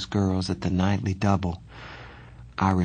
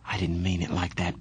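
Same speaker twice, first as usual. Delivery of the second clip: tender; 2 semitones lower, 5 dB quieter than usual. Acted. Johnny comforting crying Ponyboy.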